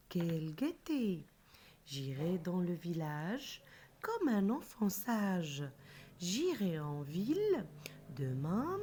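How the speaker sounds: put-on measured children's poem reading with lilting line endings; singsong classroom recital; poem recitation. Shown as a demonstration. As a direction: recite the verse line by line, pausing after each.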